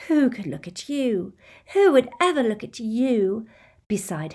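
cruel sneering voice; evil taunting. Acted. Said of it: "an evil duet".

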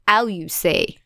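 "How you say" with a French dropped H; mild French accent on "How you say". Shown as a demonstration. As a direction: say "How" without its H, French-style. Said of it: "You don't pronounce the H".

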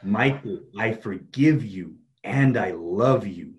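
very slow, emphatic affirmation. Shown as a demonstration. Coach models stronger self-forgiveness, slow and emphatic. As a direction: draw out each phrase and drive it home. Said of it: "say it with even more conviction".

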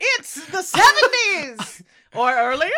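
loud, high, slow hammed-up announcement; mock announcer. Setting the scene back in time, loud slow mock announcer. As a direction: proclaim it like a trailer voice.

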